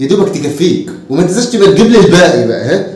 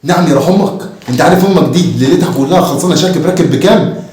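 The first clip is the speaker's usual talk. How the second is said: outraged. Acted. Father outraged at demand.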